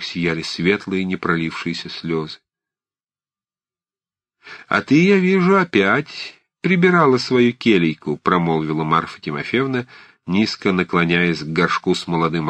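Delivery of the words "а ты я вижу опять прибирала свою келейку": put-on an old aunt's higher, louder voice; old aunt Marfa. A narrator's reading. Old aunt teasing her niece about her tidying. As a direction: play the fussy old aunt.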